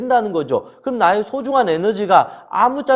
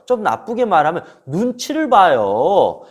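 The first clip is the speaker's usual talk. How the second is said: ordinary talk, nothing marked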